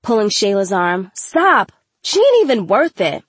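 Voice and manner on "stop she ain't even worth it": raised, high voice breaking up a fight; high, urgent plea to back off; urgent intervention. A narrator's reading. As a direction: call a friend off sharply. Friend pulling attacker away.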